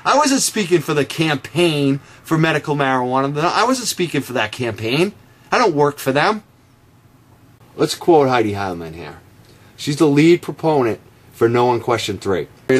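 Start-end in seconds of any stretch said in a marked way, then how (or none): none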